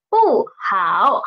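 "不好" with falling bù, then low third-tone hǎo; unchanged tone sandhi. Shown as a demonstration. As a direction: keep "不" falling before "好". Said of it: "didn't change".

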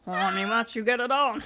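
put-on a barely-there French accent, suggestive; a failed attempt at a horny French alligator; bad French accent. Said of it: "Why can't I do a French accent?".

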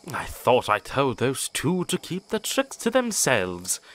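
grumbling. Acted. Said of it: "grumbled Edward".

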